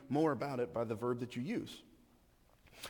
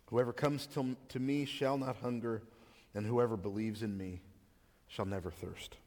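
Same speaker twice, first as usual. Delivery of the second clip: scripture reading; 3 semitones lower than usual. Acted. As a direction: read the passage as Scripture to the congregation. Reads the scripture passage aloud.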